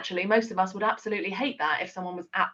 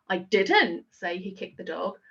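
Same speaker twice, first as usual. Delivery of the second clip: "didn't" hit harder than the other words; stress on didn't. Shown as a demonstration. Trainer demonstrating emphasis to teachers, weight on "didn't". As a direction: punch "didn't" as a firm denial. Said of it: "emphasize one of those words".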